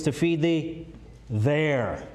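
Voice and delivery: "there" set apart after a pause; pause, then land firmly on "there"; "there" as its own weighty, falling word; stress on THERE. Shown as a demonstration. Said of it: "put my emphasis on it here".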